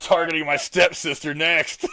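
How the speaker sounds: slow, laughing through words; can't stop laughing. Real, not acted. Joke while laughing.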